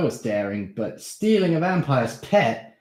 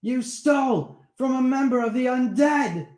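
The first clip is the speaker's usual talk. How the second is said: much higher, louder panicked rant; angry; 7 dB louder than usual. Acted. Steve warning Darren the vampire will come, angry. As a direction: frighten him with the danger.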